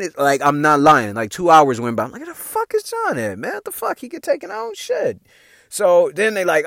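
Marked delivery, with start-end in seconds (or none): 2.2-5.2 high, frantic worried disbelief; panicked. Retold or imitated. Friend gone two hours, frantic high panic. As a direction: freak out about the missing friend.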